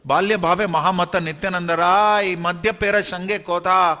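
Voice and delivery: measured, lilting verse delivery; scripture verse recitation. A narrator's reading. (लय में पद्य पाठ)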